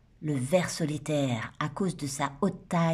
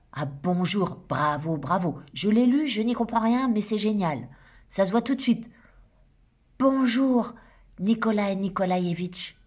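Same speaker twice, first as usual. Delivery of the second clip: lightly voiced bossy woman bursting into a party; indignant Shura; 3 semitones higher than usual. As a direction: burst in scolding everyone, half joking. Narrator voicing Shura Schlesinger.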